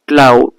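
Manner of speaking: ক্লাউড said loud with a firm push; forceful stress. Shown as a demonstration. Teacher demonstrating stress to the class, ক্লাউড said with force. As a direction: punch out ক্লাউড as a stressed word. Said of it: "একটু জোর নিয়েই আমরা ক্লাউডকে".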